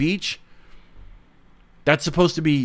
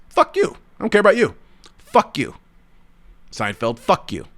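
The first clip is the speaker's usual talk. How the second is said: angry retort; 4 semitones higher than usual. Real, not acted.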